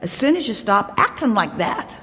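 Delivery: firm playful scolding. Acted. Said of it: "And we say".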